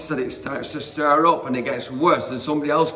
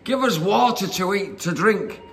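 higher-pitched mock quarrelsome demand; grumbling demand; 5 semitones higher than usual. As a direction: act out a grumbling crowd, pitched up. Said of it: "quarreled and grumbled".

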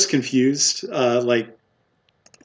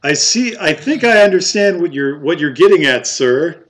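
put-on higher, louder knowing barkeep, English accent; 5 semitones higher, 5 dB louder than usual. Barkeep tells customer he gets the hint, English accent. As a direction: play up the understanding in an English accent. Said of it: "he's talking in an English accent".

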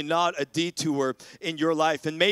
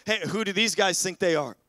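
acted indignation building to loud, higher protest; mock outrage, voice raised; riled-up crowd; 5 semitones higher, 5 dB louder than usual. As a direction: play an agitator stirring up the crowd. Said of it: "they get everybody riled up".

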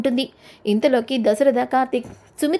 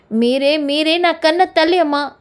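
mild, drawn-out raised cry; narrated cry-out; 3 semitones higher than usual. Acted. Deepa telling Sumitra she is her mother, mildly crying out. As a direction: call it out slowly, with restrained force. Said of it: "అని దీప అరుస్తుంది".

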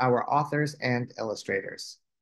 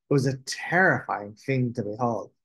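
plain reading voice

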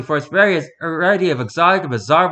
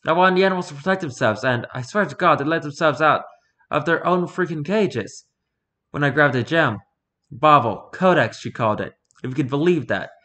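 news anchor voice. Acted. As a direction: read it like an evening newscaster. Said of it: "Trying to read in, in a news anchor voice".

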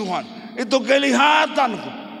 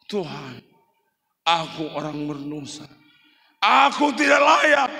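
weeping sinner's prayer; 4 semitones lower than usual. Acted. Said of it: "Dia menangis".

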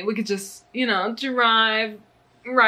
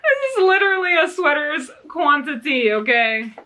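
excited; 6 semitones higher, 3 dB louder than usual. Real, not acted. Overjoyed at yarn amount.

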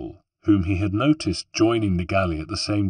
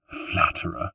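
flirtatious; 3 semitones lower, 5 dB quieter than usual. A narrator's reading. Flirting reply to joke.

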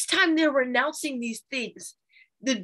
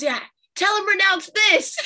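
higher, louder mom calling down from the stairs; imitating mom; 9 semitones higher, 6 dB louder than usual. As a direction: call it down the stairs like mom, half laughing. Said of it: "she goes".

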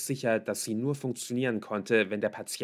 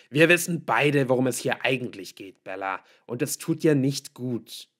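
louder, raised father's reproach; angry confrontation; 4 semitones higher, 9 dB louder than usual. A narrator's reading. Father pounds the table confronting daughter, angry. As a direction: confront firmly, hitting the first words hard.

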